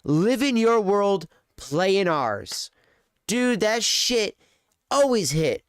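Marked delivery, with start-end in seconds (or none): 0.0-2.7 slow, savoring ad slogan; slogan read slowly. Retold or imitated. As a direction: quote it like a fond tagline. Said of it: "my favorite slogan".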